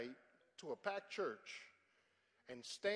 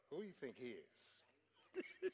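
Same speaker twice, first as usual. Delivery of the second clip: mock indignant, laughing; 5 semitones lower, 9 dB quieter, much slower than usual. Congregation mocking, laughing.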